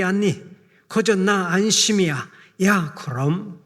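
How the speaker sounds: Psalm recited in a thick North Korean dialect, folksy and earthy; rough North Korean village speech, hearty and plain-spoken. Acted. Preacher shows the congregation the Korean-Chinese version, in North Korean dialect. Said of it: "북한 사투리로 만든 시편 이십삼 편은 아주 걸쭉한데요".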